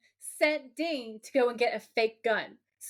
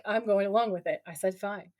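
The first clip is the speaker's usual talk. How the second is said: grudging compliance; 3 semitones lower than usual. Retold or imitated. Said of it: "Dean's all like".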